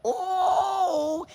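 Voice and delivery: high cried-out oh of amazement; amazed cry. Real, not acted. Reacting to the punt return boast, high amazed cry. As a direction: let out a stunned high cry. Reacting to Prime's bold claim.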